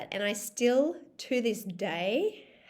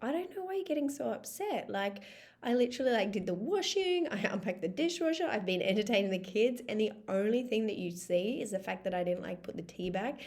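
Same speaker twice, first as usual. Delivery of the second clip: defensive reply. Retold or imitated. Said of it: "I'm like".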